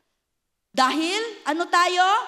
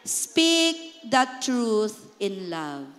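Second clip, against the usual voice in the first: very slow, lower, tender reading; slow gentle verse; 5 semitones lower, much slower than usual. Shown as a demonstration. Pastor repeats verse for church, slow and tender. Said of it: "How do you say it?".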